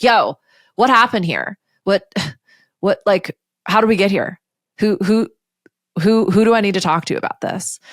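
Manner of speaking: acted impatient demand, looking for someone to blame; angry, frustrated blame. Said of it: "They are angry. They are frustrated".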